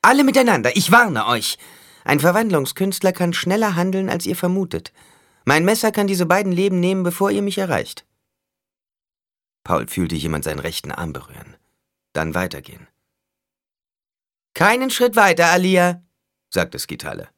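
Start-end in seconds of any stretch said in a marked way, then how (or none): 0.0-8.0 very high, loud warning to everyone; shouted threat. A narrator's reading. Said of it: "rief Skitale". 14.5-16.0 high, loud warning; threatening command. A narrator's reading. Skitale threatens Alia with knife.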